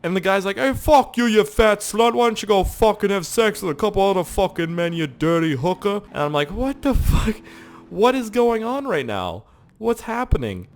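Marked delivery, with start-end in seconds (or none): 0.6-6.0 loud, high hammed-up shouting; mock furious comeback; imitated angry man. Retold street fight, man yelling back. 6.5-10.7 high-pitched, incredulous outburst; mock bewilderment. Retold bewilderment at the fight.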